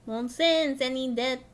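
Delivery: badly attempted French accent. Streamer voicing Lord Haurchefant, botched French accent. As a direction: try a French accent and miss. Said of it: "I cannot do a French accent".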